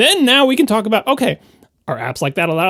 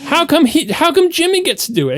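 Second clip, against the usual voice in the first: put-on high, complaining kid voice; mock kid protesting to a parent; whiny child; 5 semitones higher than usual. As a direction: whine it like a child asking why Jimmy gets to. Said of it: "because you say".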